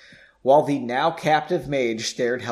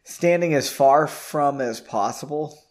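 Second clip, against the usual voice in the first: slow puzzled reread. Shown as a demonstration. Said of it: "I don't think that's a".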